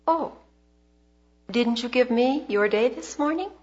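gently probing question, lifting at the end; quiet, gentle. Retold or imitated. God gently questions Carol's heart, quiet and gentle. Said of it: "he said very quietly and gently".

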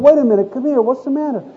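lightly acted parental concern; concerned father. Dad stopping his upset daughter, gently coaxing.

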